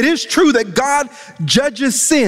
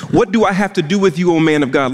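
quick, exasperated retelling of the verse; a hint of an exasperated widow; frustrated widow; 8 semitones lower, faster than usual. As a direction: rattle it off like she's fed up. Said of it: "let me show you how the widow responds".

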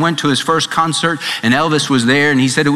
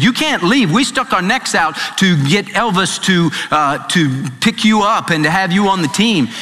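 pressuring friends; 5 semitones higher than usual. Retold or imitated. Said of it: "they said".

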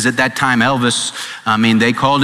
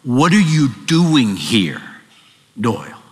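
slow, low divine question; the Lord calling Doyle by name; 3 semitones lower than usual. Retold or imitated. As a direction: ask it gently and slowly, like God calling. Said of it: "heard the Lord's voice saying".

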